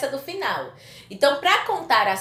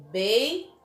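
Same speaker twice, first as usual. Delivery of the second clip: "beijou" split into bei... JOU, last syllable held; stress on JOU. Shown as a demonstration. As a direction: show the class the strong end of "beijou". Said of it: "ele é a sílaba mais forte". ("beijou" em sílabas separadas, alongando o JOU)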